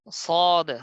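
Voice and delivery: সদ with a thick, rounded full-mouthed "so"; heavy letter. Shown as a demonstration. Teacher naming the new letter, heavy pronunciation. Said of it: "মোটা থাকবে উচ্চারণ এরকম".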